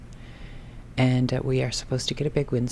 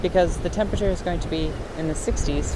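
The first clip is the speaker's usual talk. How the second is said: loud, raised voice against the storm; shouting over wind; 4 semitones higher, 8 dB louder than usual. Real, not acted. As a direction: call out over howling wind. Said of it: "I'm not sure if you can hear me over the wind".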